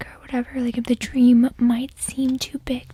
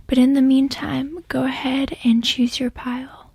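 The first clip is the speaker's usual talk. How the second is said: whispering. Real, not acted. ASMR tarot whisper.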